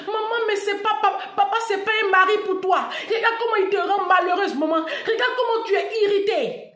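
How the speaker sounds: put-on child pleading. Storyteller voicing the daughter pleading with her mother. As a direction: plead like a sad small child.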